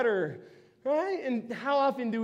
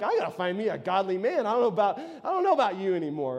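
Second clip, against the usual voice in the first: mimicking her; 3 semitones lower, faster than usual. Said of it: "she was also like".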